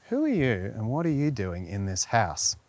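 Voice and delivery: low, soft, teasing come-on; sexy stranger. Pretend. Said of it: "So you get your sexy on a little bit".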